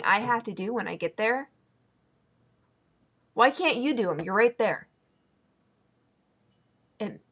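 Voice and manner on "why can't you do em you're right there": annoyed, pitched-up challenge; fed up, confronting someone who won't help; exasperated complaint. Acted. Venting at whoever leaves her dishes.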